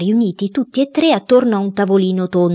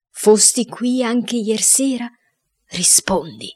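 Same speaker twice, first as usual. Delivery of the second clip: commanding; 4 semitones higher, slower than usual. Acted. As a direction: question the spirit slowly as a commanding medium. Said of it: "disse il cuoco in tono di comando". (tono di comando, lento)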